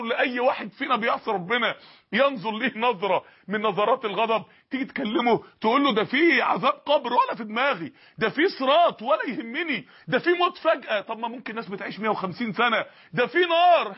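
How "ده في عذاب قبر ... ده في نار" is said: escalating preacher's warnings; rising warnings. Acted. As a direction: build the warnings from firm to forceful. Preacher warns, sinner shrugs off.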